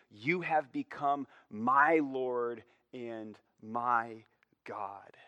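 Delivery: slow, "my" drawn out and stressed; emphatic, slow. Shown as a demonstration. Preacher driving home the personal confession, slow and weighted. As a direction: draw out "my" before "God". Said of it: "This is an emphatic statement".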